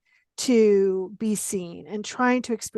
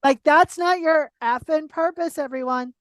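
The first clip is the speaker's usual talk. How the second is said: sarcastic, louder and higher; 4 semitones higher, 4 dB louder than usual. Real, not acted. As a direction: lay the sarcasm on thick. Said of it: "I don't do sarcasm, but this is it".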